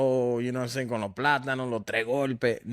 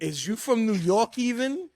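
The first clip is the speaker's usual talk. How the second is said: much higher mocking question; teasing jab; 9 semitones higher than usual. Real, not acted. Friends roasting Buffalo, high mocking jab. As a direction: rib them playfully.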